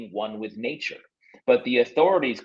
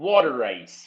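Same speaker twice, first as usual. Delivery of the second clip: put-on Philadelphia accent. Asked about a Philadelphia accent, a speaker shows it off: Philly accent. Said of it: "That's a Philly accent".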